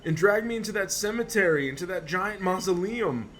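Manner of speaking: shaken and frightened. Acted. Attacked man telling the doctor what grabbed him. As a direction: relive the horror as you tell it. Patient recounts attack, terrified.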